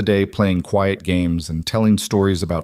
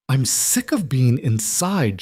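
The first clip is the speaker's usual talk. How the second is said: burst out; 5 semitones higher, slower than usual. A narrator's reading. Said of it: "she burst out".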